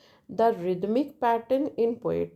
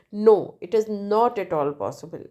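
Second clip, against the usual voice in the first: firm stress on "No" and "not"; emphatic; 4 dB louder than usual. Shown as a demonstration.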